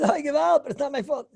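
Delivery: high, loud complaining plea; whiny protest. Retold or imitated. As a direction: plead like it's unfair. Runner protests his lateness.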